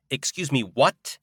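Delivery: cried out. A narrator's reading. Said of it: "I cried".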